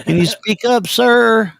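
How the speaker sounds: slow, dumb-sounding country caller; stalling country voice on a prank call; slow country drawl. Retold or imitated. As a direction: play a slow country boy stalling on the phone. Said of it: "I'm country. I talk really slow".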